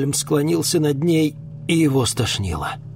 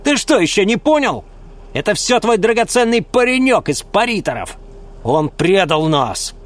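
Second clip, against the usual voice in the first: loud raised scolding; woman furious at the betrayal; angry accusation; 9 semitones higher, 4 dB louder than usual. Acted. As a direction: berate the partner. Woman berates accomplice.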